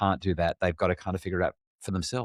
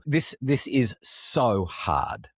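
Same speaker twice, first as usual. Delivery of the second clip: weary lament; 5 semitones higher, much slower than usual. Retold or imitated. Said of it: "I look at my kids and go".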